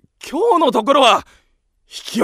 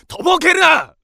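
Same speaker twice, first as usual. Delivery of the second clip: angry yell; 5 semitones higher, 3 dB louder, slower than usual. Acted. Angry confrontation.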